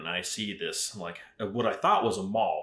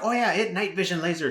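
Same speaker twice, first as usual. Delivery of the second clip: imitating the Asian vendor lady, voice pitched up; a broad put-on Asian accent for the saleswoman; mock Asian accent; 8 semitones higher, 3 dB louder than usual. Vendor lady pitching the night vision laser, mock Asian accent. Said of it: "Ex-, excuse my terrible".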